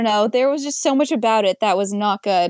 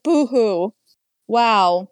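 sarcastic boo-hoo; much slower than usual. Pretend. Sarcastic about bullied girl.

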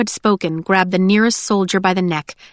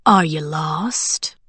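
low, very slow mocking question; leering soldier; 3 semitones lower, much slower than usual. A narrator's reading. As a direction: stretch it out as if toying with prey. Soldier toys with the women.

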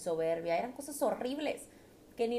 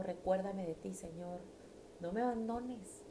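quiet prayer; 2 semitones lower, 5 dB quieter than usual. Retold or imitated. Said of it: "le clamo".

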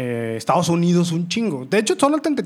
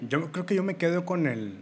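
talking while burping; 6 dB quieter than usual. Real, not acted. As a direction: voice catching on a burp. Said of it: "ay, perdón, pinche, el eructo". (hablando mientras eructa)

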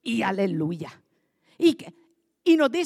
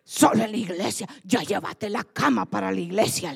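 exasperated relative; 3 semitones lower than usual. Retold or imitated. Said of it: "le dice".

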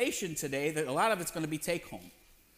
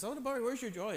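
gentle Spirit; 6 semitones higher, 4 dB quieter than usual. Retold or imitated. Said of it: "and then the Spirit says".

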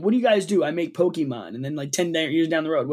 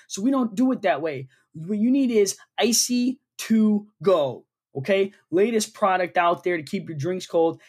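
mock ad read; 3 semitones higher than usual. Performs a mock sponsor read.

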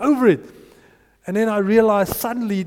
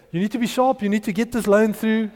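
worked up; 3 dB louder than usual. Retold or imitated. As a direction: press her hard, all worked up. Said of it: "You know, I was worked up".

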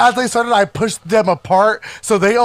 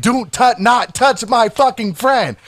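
mildly heated, higher-pitched warning; retold angry scream; 4 semitones higher, slower than usual. Defending a friend on the patio, retold angry scream. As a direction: drag out the order, emphatic but not yelling. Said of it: "that's all I'm fucking screaming".

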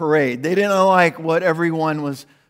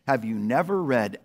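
lower, quieter reading of the line; soft quote; 6 semitones lower, 5 dB quieter than usual. Acted. Pastor quoting Psalm eight to congregation, soft and low. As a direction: read the psalm words gently.

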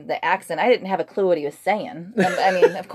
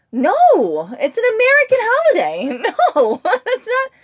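a higher laughing no, breaking into laughter; laughing retort; 14 semitones higher, 7 dB louder than usual. Retold or imitated. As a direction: laugh through the correction. Laughing retort to silly question.

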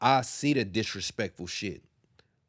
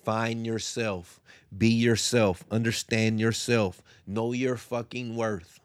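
emphatic preaching; 5 dB louder, slower than usual. Real, not acted. Preaching self-worth to the audience.

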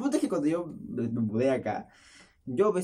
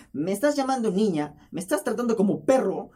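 teasing indignation; 5 semitones higher, 3 dB louder than usual. Retold or imitated. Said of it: "yo por joder".

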